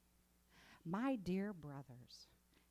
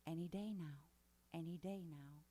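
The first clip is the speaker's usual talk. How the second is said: lazy waiting mock; 3 semitones lower, 4 dB quieter than usual. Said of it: "they were just chilling, waiting".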